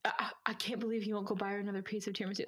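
whispered whiny quote; mocking whisper.

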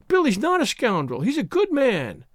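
put-on high, indignant young woman defending someone; firm defence. A narrator's reading. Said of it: "with a firmness that surprised Bashford".

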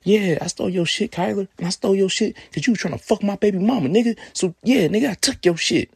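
high, loud, brazen admission; Darius's voice. Retold or imitated. Darius taunting Kyler over the phone, high and loud. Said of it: "This is Darius speaking".

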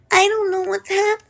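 put-on lightly high helpless girl; baby-girl voice. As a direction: play the confused little girl. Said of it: "they do that voice".

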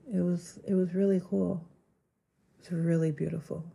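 wheezy, fading breathy voice; words pushed out through a wheeze; wheezing. Real, not acted. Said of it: "I'm wheezing".

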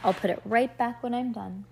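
measured, expressive story reading; storybook read-aloud. A narrator's reading. Reader tells a child about two girls dressing up, storybook read-aloud.

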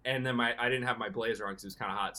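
ordinary talk

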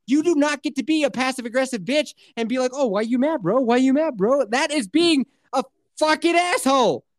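mild indignant rant, rising at the end; reenacted rage. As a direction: lecture in mock outrage. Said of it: "I was just reenacting my rage".

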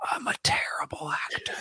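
secretive whispered confession; imitated stage whisper; John Malkovich. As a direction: lean in close and whisper it. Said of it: "Leans in".

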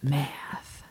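dry little whisper. Real, not acted. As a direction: breathe the word out, no voice. Deadpan whispered joke after counting.

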